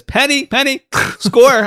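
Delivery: high sing-song call for Penny; high calling golfer. Retold or imitated. Golfer calls to Penny, high and sing-song. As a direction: summon her like a pampered boss. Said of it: "he says".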